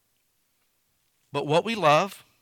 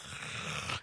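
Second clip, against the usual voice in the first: soft, breath-only fake yawn; acted yawn on a soft exhale; mock yawn; 13 dB quieter than usual. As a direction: let out a quiet pretend yawn. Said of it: "sorry, I made you yawn".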